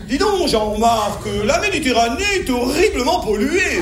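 put-on affected Paris accent; mock Parisian accent. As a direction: parody a concerned Parisian with pursed lips. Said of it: "Ça m'intéresse pas non plus de dire".

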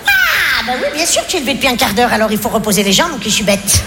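sarcastic wife. Acted. Sarcastic wife mocking husband.

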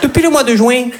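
put-on high, singsong accent du Midi; southern French accent. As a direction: play a romcom couple with a Marseille twang. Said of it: "avec l'accent du Midi".

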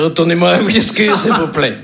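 failed attempt at a Canadian French accent; botched Canadian accent. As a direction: badly fake a Canadian customer. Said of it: "je sais pas faire l'accent canadien". (accent canadien raté)

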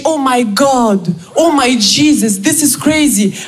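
slow, drawn-out American gushing; gospel-style gush. Retold or imitated. Friend in the US gushing like a gospel singer, slow. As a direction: stretch it out like a gospel preacher. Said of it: "Un gospel de dix-sept minutes".

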